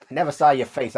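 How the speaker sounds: bad Boston accent; a weak attempt at a Boston accent. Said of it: "that's a terrible Boston accent".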